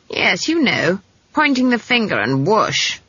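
put-on a touch of tart old-witch impatience; sour. Granny explains fire-making to the girl, mildly sour. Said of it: "said Granny sourly".

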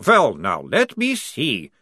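slow, drawn-out sarcasm; sarcastic. Acted. Prisoner mocking the lieutenant, slow and sarcastic. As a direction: let it drip with mock pondering. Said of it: "said Towering sarcastically".

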